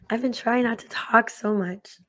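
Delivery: husky sick voice; hoarse voice. Real, not acted. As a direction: speak through a sore throat. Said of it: "I like the husky voice".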